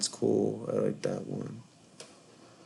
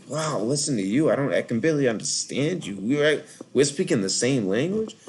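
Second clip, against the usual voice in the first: higher-pitched retold disbelief; incredulous; 5 semitones higher than usual. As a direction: marvel that you can barely understand them. Retold disbelief at others' accents.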